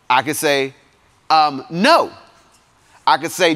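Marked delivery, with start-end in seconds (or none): 1.7-2.1 raised questioning no. Shown as a demonstration. Preacher showing the congregation another way to say no. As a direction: lift the "No" up like a doubtful question. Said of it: "I can say no to you in three different ways".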